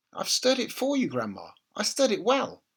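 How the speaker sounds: put-on dutiful small boy answering; little boy's voice. A narrator's reading. George answers grandma.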